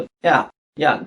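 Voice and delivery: ইয়া as a sagging "ya" sound; drooping-vowel demo. Shown as a demonstration. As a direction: let the a of ইয়া slide into "æ". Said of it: "একটু ঝুলে পড়ার মতো".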